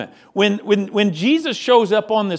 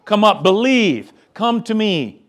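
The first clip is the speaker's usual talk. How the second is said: mild mock call; 2 semitones higher than usual. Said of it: "he screams down to the weary".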